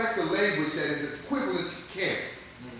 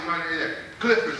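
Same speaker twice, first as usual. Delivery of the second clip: proudly; 5 semitones lower than usual. Shown as a demonstration. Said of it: "you say it proudly".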